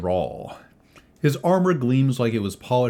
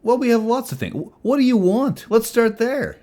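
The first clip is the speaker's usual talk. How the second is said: high, pushy barkeep voice, much louder; jovial innkeeper; 5 dB louder than usual. Acted. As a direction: fuss over guests like an overeager innkeeper. Tony takes the order.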